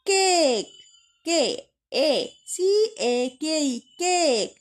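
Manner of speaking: কেক with এ drawn out like the letter's name; long A sound. Shown as a demonstration. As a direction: stretch the vowel in কেক and spell it out slowly. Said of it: "সেই নামের মতো করেই আমরা উচ্চারণ করছি". (কেক-এর এ টেনে, অক্ষরের নামের মতো)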